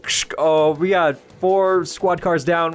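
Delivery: crackly scanner voice asking for air support; police radio chatter. Acted. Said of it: "You guys can hear the police scanners like".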